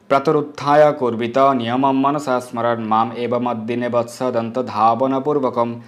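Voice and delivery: slow, measured chanting of verse; a slow, devout recital of scripture; Sanskrit recitation. Acted. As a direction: intone it like a priest.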